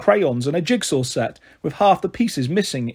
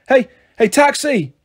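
high, loud call hailing a taxi; mum yelling; 8 semitones higher, 4 dB louder than usual. Acted. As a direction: shout across the street to stop the cab. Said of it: "Mum yelled".

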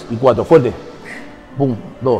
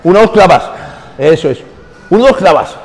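loud coaching cue; 3 semitones higher, 4 dB louder than usual. Real, not acted. Coach loudly cueing rep tempo.

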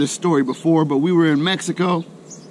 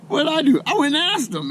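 playful glee; 10 semitones higher than usual. Real, not acted. Excited build to the punchline.

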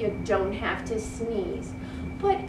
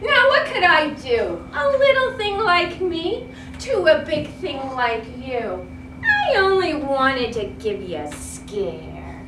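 amused mouse. Acted. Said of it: "The little mouse laughed".

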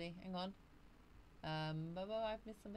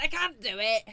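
mock wail; 4 semitones higher, 15 dB louder than usual. Retelling her own call to Kate.

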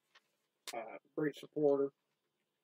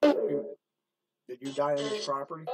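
louder, slow questioning call; calling into the dark; 5 dB louder, slower than usual. Real, not acted. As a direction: ask the spirits slowly and loudly. Calling out to spirits.

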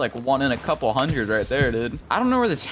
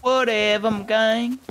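high-pitched whatever; 10 semitones higher, slower than usual. Pretend. Teasing echo of friend's word.

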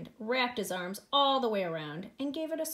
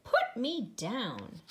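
slow, mild mock shout; spaced-out offended order; indignant shout; much slower than usual. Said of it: "shouted the rabbit".

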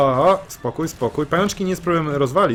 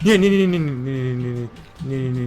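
panicked no no. Real, not acted. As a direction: cry out as danger hits. Panicking at danger.

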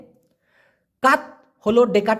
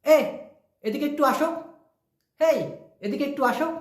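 calling someone over; 4 semitones higher than usual. Acted.

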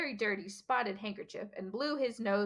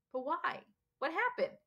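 urgent; 7 semitones higher than usual. A narrator's reading. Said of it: "Harry asked urgently".

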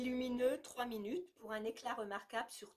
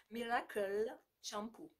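slow, hammed-up Italian accent on the product name; accent italien exagéré et lent; mock Italian accent; slower than usual. Shown as a demonstration. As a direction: say it like a joking Italian salesman. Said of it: "l'accent, un peu italien, un peu n'importe quoi".

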